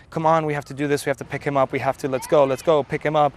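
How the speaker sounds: mild retold yell to spur them on; retold urging yell. Survivor urging helpers to lift the wounded man, retold yelling. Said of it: "yell at everybody".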